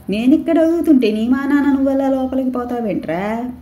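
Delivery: mother scolds her son walking away; angry yell. Acted. Angry mother yelling after son. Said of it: "అరిచింది కోపంగా".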